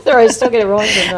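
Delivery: words through laughter; laughing. Real, not acted. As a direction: talk while still giggling. Laughing after choking.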